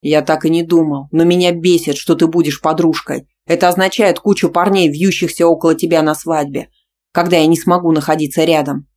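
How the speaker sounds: loud, heated; angry. Acted. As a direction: hurl the complaint. Boyfriend argues loudly.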